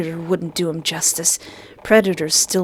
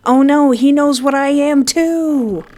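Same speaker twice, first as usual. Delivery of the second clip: high, loud alarmed cry; panicked; 7 semitones higher, 5 dB louder than usual. Real, not acted. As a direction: yelp it in mock panic. Streamer reacts in panic.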